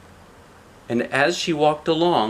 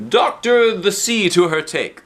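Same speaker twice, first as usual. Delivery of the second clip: higher, louder, slow and pleased; Topsy-Turvy idea; 8 semitones higher, 5 dB louder than usual. Acted. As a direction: announce the bright idea.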